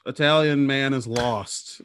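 lightly voiced onlooker, slow and drawn out; a slow, mildly pitying mock reaction; clueless passerby. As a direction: stretch it out like a mistaken bystander. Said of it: "They'd be like".

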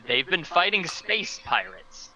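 stunned. Acted. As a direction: let the disbelief drag each word. Repeating absurd news to agents.

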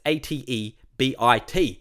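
slow, separate letters; spelled out slowly. Shown as a demonstration. Host making sure everyone gets the address right, slow spelling. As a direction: spell it carefully, one letter at a time. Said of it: "make sure everyone gets it right".

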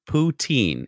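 put-on poutine as poo-TEEN, stress on TEEN; poutine, said carefully. Shown as a demonstration. Teaching a friend to say poutine, slow and clear. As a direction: spell out the sound of poutine. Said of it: "How do I say it?".

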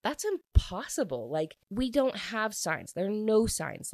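mock incredulous denial. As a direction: play a boy insisting it can't be so. Retold boy denying what she said.

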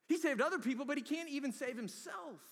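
loud, high, sneering taunt; jeering crowd. Retold or imitated. The crowd mocking Jesus on the cross, loud high sneer. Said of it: "It was all a big joke to them".

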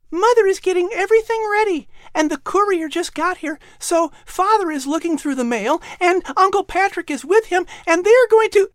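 fast, breathless rush of excited words; gushing child. Acted. Little Jane gushes news to her brother, fast and excited. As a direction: spill it all out before catching yourself. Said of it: "Jane gushed out".

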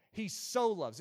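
"so" given clear weight; stress on SO. Shown as a demonstration. Preacher repeating the scripture phrase, stress on SO. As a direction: lean on the word "so". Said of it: "you notice I emphasized so".

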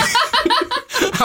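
bursting into a high laugh; a laugh cracking up high; high burst of laughter. Real, not acted. Host cracking up at the co-host's joke, laughing. Co-host jokes about 1983.

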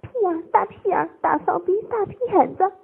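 high, loud coy exclamations; bashful voice growing bold, pitched high; coy yet unrestrained. A narrator's reading. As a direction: let go in short, high bursts. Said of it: "娇羞而又放肆".

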